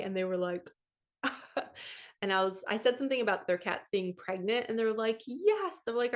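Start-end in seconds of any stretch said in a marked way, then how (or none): 1.2-2.0 breathy unvoiced chuckle; soft breathy laugh. Real, not acted. Laughing at the owners' reaction. 5.3-5.8 excited. Retold or imitated. Owners confirming pregnant cats.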